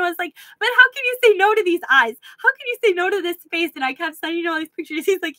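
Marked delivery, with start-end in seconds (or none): 0.6-3.7 mock begging. Begging husband with cat pictures.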